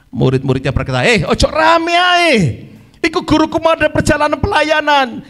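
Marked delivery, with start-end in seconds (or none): 1.1-5.3 raised-pitch acted telling-off; scolding. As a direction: hush the noisy man as a disciple. Disciples scold the shouting man.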